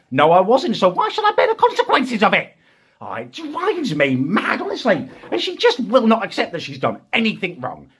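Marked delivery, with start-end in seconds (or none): 0.1-2.6 loud, high indignant outburst; rising exasperated rant; angry rant. Retold or imitated. Ranting at sister, voice rising.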